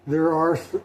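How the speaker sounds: yawning mid-word; words stretched by a yawn. Real, not acted. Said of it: "pardon me for yawning".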